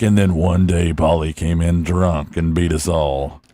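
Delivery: deadpan parody of a story's twist; mock story narration. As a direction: drag out a silly tragic ending. Mock story ending, slowed.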